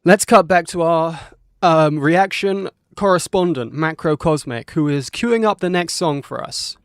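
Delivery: loud, excited broadcast voice; lightly hammed-up sports commentator. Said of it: "I'm gonna stop talking like a sports commentator".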